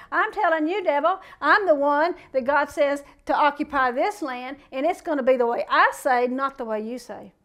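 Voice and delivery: emphatic, defiant declaration; coming right back. Acted. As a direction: come right back at the devil, forcefully. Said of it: "He came right back at".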